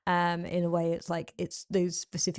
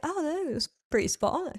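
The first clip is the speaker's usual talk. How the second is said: put-on Australian accent; 9 semitones higher than usual. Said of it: "I'll do Australian if you want".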